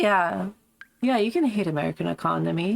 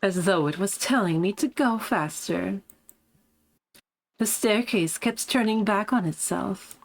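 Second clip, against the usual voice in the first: smug posh voice. Acted. Streamer finding the character's voice again, lightly smug and posh. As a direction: recount it with a touch of posh poise.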